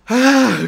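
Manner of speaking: loud, high mock gasp of disbelief; seruan kaget penjual. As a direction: burst out a big exasperated "hah". Penjual kaget ditawar lagi. (seruan "hah" keras dan tinggi)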